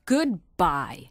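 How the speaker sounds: mildly angry farewell; a touch of anger in a parting word; understated annoyance. Acted. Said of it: "said Virginia angrily".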